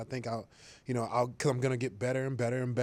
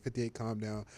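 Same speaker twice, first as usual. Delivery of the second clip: mock calm Rodgers; 2 semitones lower, 6 dB quieter than usual. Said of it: "he's always like".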